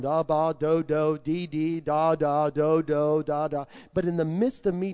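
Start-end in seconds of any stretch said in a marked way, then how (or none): 0.0-3.6 made-up tongues syllables. Retold or imitated. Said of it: "So I kept on".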